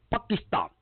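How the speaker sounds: Pakistan said high as pah-kee-stahn; Obama's Pakistan. Retold or imitated. Imitating Obama saying Pakistan, pah-kee-stahn, high pitch. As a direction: Pakistan with open ah vowels, lifted high. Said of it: "when Obama was talking about Pakistan".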